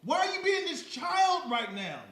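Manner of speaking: loud, high scolding shout with a laugh. Acted. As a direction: yell at the kid, half-laughing. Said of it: "So, like".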